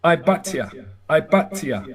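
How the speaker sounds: "I but ya" pronounced eye-BAHT-yah; Hebrew pronunciation demo. Shown as a demonstration. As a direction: show the word "I but ya" in careful syllables. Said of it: "So see this word?".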